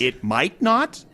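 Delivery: slow, high, loud disbelief; shocked. Acted. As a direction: echo it back in shock. Shocked echo.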